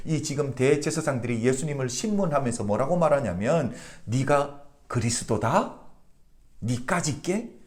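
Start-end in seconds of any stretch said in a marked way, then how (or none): 4.1-7.6 slow, scornful rising question; mocking disbelief. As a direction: sneer it slowly as an incredulous question. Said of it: "이렇게 조롱을 하고 있는 것입니다". (느리게 비웃으며 되묻는 조롱조)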